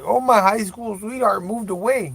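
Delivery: high, hammed-up lovesick lament; mock pining. Joking about the high school girlfriend, high mock heartbreak. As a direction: put on a lovelorn wail as a joke.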